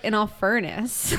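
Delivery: drawn-out mock Irish accent, vowel like "furnace". Puzzling over the Irish guy's phrase, mock Irish accent. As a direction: stretch it in an imitated Irish accent. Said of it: "without doing an Irish accent".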